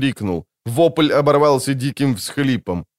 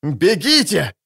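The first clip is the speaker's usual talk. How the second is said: shrieked; 6 semitones higher, slower than usual. Acted. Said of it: "взвизгнул Скеллен".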